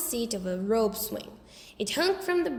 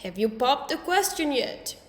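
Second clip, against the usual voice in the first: put-on little kid voice; 3 semitones higher than usual. A narrator's reading. Fudge asking.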